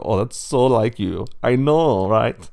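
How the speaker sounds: bantering pig voices. Acted. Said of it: "And they go".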